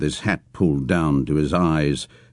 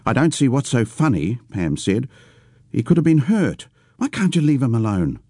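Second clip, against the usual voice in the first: scolding; 6 semitones higher than usual. Acted. Pam scolding Geordie.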